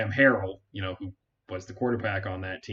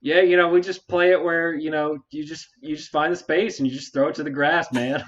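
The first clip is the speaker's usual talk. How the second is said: laid-back West Texas twang, higher; West Texas accent; 6 semitones higher, 6 dB louder than usual. Retold or imitated. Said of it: "this extremely, like, West Texas accent".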